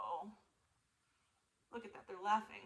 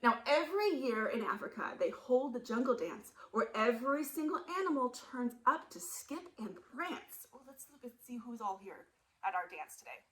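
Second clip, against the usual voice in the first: ordinary delivery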